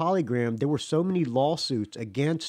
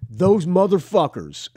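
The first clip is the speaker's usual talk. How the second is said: slow, louder, disgusted growl of a curse; 4 semitones higher, 6 dB louder, slower than usual. Retold or imitated. Road manager cursing the old band, slow and disgusted. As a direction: spit out the band's name with contempt.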